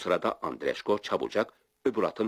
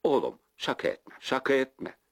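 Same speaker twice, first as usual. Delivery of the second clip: high, rising desperate begging; pleading; 7 semitones higher than usual. A narrator's reading. Frightened official begging the young man not to leave him, desperate pleading. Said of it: "Memur yalvarmaya başladı".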